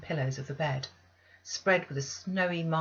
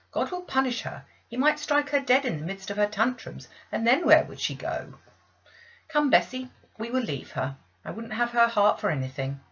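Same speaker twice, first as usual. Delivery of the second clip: righteous condemnation; 6 semitones higher, 5 dB louder than usual. Acted. Abbot condemns the girl.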